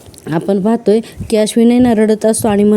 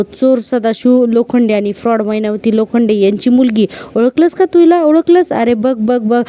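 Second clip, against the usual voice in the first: gloating taunt. Retold or imitated. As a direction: rub it in with glee. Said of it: "Nagraj खूपच हसायला लागतो". (मोठ्याने हिणवत, खिल्ली उडवत)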